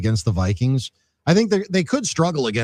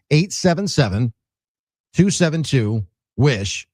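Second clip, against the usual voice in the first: slow, careful number; 3 dB louder, slower than usual. Shown as a demonstration. Host repeats the donation phone number for listeners, slowly. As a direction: read the number slowly in separate, spaced-out groups. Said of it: "I'll say it slowly this time".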